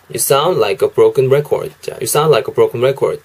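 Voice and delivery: slow, careful "You sound like a broken record"; teacher modelling "You sound like a broken record"; slow English demo. Shown as a demonstration. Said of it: "이렇게도 발음하실 수 있다는 거".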